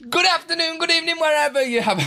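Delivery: high, loud sing-song greeting; excited greeting. Acted. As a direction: belt out a cheery hello. Streamer's big opening greeting.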